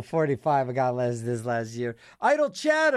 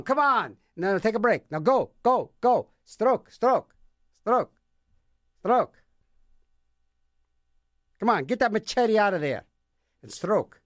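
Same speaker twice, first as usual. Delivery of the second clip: mock coxswain calling the stroke, higher; calling out stroke like a rowing coach; imitating rowing coach yell; 5 semitones higher than usual. Coxswain yelling at rowers, mock coaching call. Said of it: "people yell at 'em".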